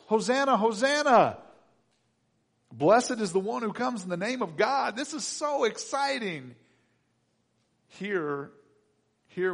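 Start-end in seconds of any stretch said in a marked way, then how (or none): 0.1-6.6 high, loud, jubilant shout; excited crowd cheer. Acted. Worshipper cheering Jesus into Jerusalem, acted excited shout. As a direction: hail him with hammed-up excitement.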